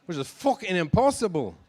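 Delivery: put-on a weak, half-hearted Irish accent; bad Irish accent. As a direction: toss off a clumsy Irish accent. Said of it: "That was a bad Irish accent".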